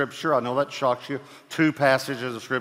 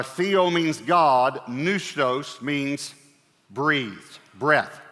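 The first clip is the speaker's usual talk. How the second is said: slow teaching; much slower than usual. Shown as a demonstration. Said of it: "It is theopneustos".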